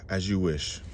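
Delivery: low, soft surrender after a sigh; resigned consent. Acted. Bali gives in with a sigh.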